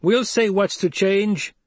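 high, loud, slow defiant protest; angry voice. Acted. Angry Fremen from a corner defying Paul, loud. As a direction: fling it back from the corner in anger. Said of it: "An angry voice lifted".

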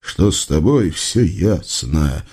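low, slow scorn; contemptuous. A narrator's reading. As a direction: dismiss him with scorn. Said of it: "презрительно отвернулся". (низкое медленное презрение)

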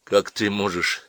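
unraised, hesitant protest; unsure muttering. Acted. Boy objects to girl cursing her mother, unsure. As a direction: object timidly, holding back. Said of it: "неуверенно пробормотал Джон".

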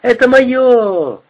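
high, drawn-out hysterical cry; hysterical scream. A narrator's reading. Woman clutches her things, high drawn-out hysterical cry. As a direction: shriek it, stretching it out. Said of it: "Истерически завопила женщина".

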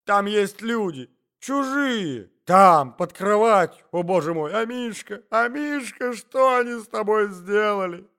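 high, loud wailing lady; loud frantic lament; distressed outcry. A narrator's reading. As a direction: cry out in high-pitched horror. Lady cries out in alarm.

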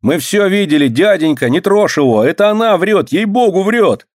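high, excited eager pleading; agitated kids. A narrator's reading. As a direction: blurt it out all worked up. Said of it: "волнуются подростки".

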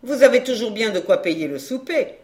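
brisk, laughing comeback; quick retort. Acted. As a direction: snap it back lightly with a laugh. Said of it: "dit vivement Olga".

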